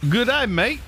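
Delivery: high, loud, mock Aussie "Good day, mate"; a playful American-style Australian accent; American take on an Australian accent. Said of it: "Read this with an American version of an Australian accent".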